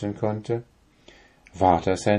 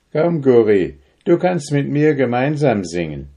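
compassionate; 4 semitones higher, 5 dB louder than usual. A narrator's reading. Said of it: "hatte tiefes Mitleid".

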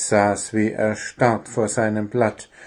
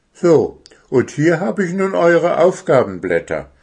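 higher, lightly voiced owl teacher; 7 semitones higher, 5 dB louder than usual. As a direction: hand out the sheets as the owl. Owl hands out sheets.

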